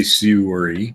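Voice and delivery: SORRY echoed as "soo-ree", rising; disputed Canadian sorry. Retold or imitated. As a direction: throw back SORRY with an oo vowel. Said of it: "he was saying s-, sorry".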